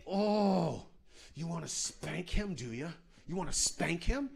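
hissed between gritted teeth; through her teeth. Retold or imitated. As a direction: snarl it through clenched teeth. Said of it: "talking at me through her teeth".

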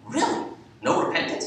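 high disbelieving "Really?"; surprised. Retold or imitated. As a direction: jump up in pitch, can't believe it. Surprised husband in story.

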